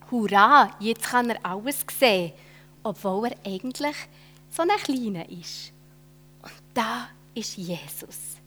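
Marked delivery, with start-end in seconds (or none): 0.1-2.3 cheering. Acted. Zachäus can see everything.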